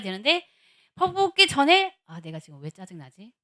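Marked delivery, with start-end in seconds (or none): 2.1-3.3 hushed thought to oneself; reflective self-questioning. Retold or imitated. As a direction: catch yourself, then ask inwardly. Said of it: "돌이켜 본 거예요".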